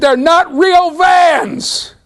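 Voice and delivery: very high, drawn-out mock shriek; mimicked teenage wail. Son protesting to his father about cheaper shoes, mimicked wail. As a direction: stretch it into a high, anguished protest. Retold outburst of horrified son.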